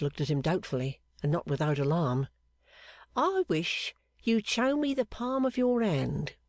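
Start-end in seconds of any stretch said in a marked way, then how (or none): 3.2-6.4 higher and slow, coaxing; coaxing fortune-teller. Acted. Clerk asking the seamstress for her palm, coaxing slowly. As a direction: draw her hand out slowly.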